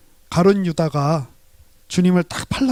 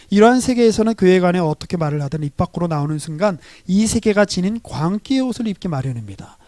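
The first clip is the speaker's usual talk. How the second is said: louder, measured reading of a quoted text; preacher reading a quotation; formal reading aloud; 4 dB louder than usual. Acted. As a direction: read the passage with weight. Reads book passage aloud.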